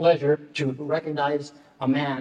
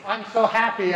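overcome with emotion; 5 semitones higher, 4 dB louder than usual. Real, not acted. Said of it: "I'm sorry I got emotional".

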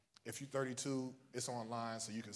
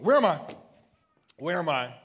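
loud cry; 7 semitones higher, 18 dB louder than usual. Real, not acted. Preacher repeats question, fading.

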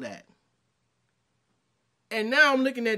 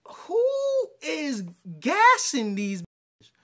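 incredulous whisper; 6 semitones higher, 4 dB louder, much slower than usual. Real, not acted. Man reacting to a dating video, slow stunned whisper.

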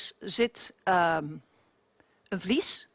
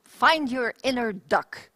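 bright nasal twang demo; pinched ringing twang; 5 dB louder, much slower than usual. Shown as a demonstration. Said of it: "Dus wat is twang?".

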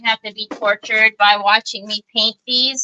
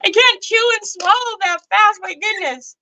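laughing protest; 10 semitones higher than usual. Retold or imitated. Mom retells being overfed, laughing.

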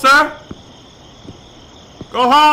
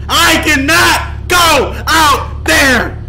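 panicked shout; 3 semitones higher, much slower than usual. Pretend. Panicking guard refuses to leave.

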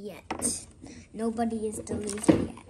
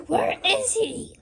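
high, baffled villain question; play-acted puzzlement; 9 semitones higher, 3 dB louder than usual. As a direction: hunt for the vanished hero, pitched high. Green Goblin searches in play.

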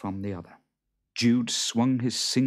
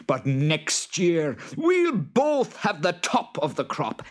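high, loud hammed-up Boggart; 11 semitones higher, 6 dB louder, slower than usual. Boggart snapping at the farmer, high and loud. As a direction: squeal it out like a cross little monster.

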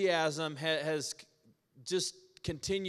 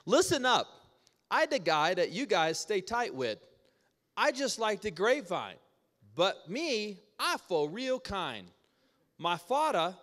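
higher, lively Hawaiian Pidgin storytelling; Hawaiian Pidgin reading; 5 semitones higher than usual. Acted. Pastor reading John fifteen to church, in Hawaiian Pidgin. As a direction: read the verse like a local in Hawaiian Pidgin. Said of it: "Let's check this out in Pidgin".

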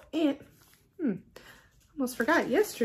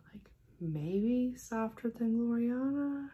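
whispered aside; 2 semitones higher, 5 dB quieter, slower than usual. Real, not acted. Whispered aside comparing threads.

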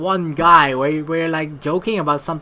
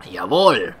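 shouting German worker; 8 semitones lower, 4 dB louder than usual. Acted. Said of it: "listen to the workers shouting".

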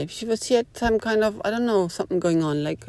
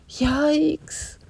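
yikes; 9 semitones higher than usual. Real, not acted. Reacting to such a person.

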